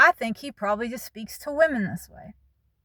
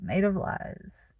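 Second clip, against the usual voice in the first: slow reflective; 5 dB quieter, slower than usual. Real, not acted. Reflective quote.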